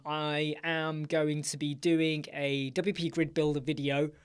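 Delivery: talking through a yawn; words stretched by a yawn. Real, not acted. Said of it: "Sorry, I'm yawning there".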